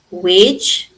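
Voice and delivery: WAGE said as one drawn-out syllable, E silent; silent final E. Shown as a demonstration. Teacher shows learners there is only one vowel sound, silent E. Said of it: "E is silent".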